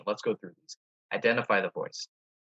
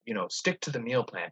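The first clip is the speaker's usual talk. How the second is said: stern good voice; 2 semitones higher, 4 dB louder than usual. Shown as a demonstration. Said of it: "Usually this good voice might be stern".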